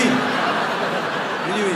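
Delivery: slow, whispered admission; hushed repeat. Retold or imitated. Comedian confesses he let the wrong name stand, hushed and sheepish. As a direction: repeat it under your breath, drawn out.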